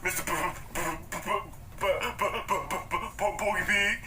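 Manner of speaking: mock stutter. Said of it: "Mister Stutter".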